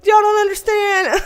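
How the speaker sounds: laughing. Real, not acted. Laughing complaint.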